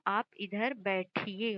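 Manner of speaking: बैठिए drawn out slowly and carefully; slow polite form. Shown as a demonstration. Teacher models the correct respectful form slowly for students. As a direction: lay out each word of "आप इधर बैठिए" slowly. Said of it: "क्योंकि आप कह रहे हो, एक इज्जत दे रहे हो".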